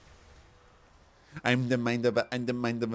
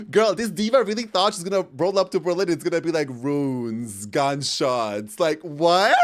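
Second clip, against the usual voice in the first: high, loud, talking through laughter; laughing; 7 semitones higher, 8 dB louder than usual. Real, not acted. Vlogger laughing about friend expecting ruins, loud and high. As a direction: giggle the words out.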